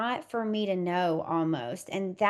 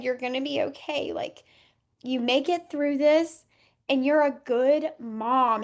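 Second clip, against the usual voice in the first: higher, choked-up voice holding back tears; tearful, on the verge of crying; 5 semitones higher than usual. Real, not acted. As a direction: let the emotion break through as you speak. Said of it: "Oh, I'm gonna cry".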